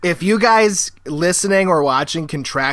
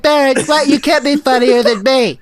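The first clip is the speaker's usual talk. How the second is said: higher, louder hammed-up dad voice; a jealous father scolding his son; mock Trump father; 8 semitones higher, 4 dB louder than usual. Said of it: "And then I said".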